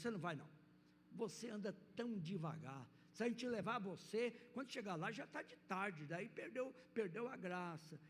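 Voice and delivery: a hint of a haughty animal brushing off the tortoise; storyteller's mild jaguar voice turning down the tortoise; dismissive jaguar. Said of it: "a dona onça não tinha muita compaixão".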